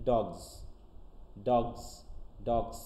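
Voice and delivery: ডগস ending in a voiced z sound, not s; dogs with z. Shown as a demonstration. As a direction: say ডগস so the last s turns into a buzzing z. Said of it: "স আসতেছে না, জ আসতেছে".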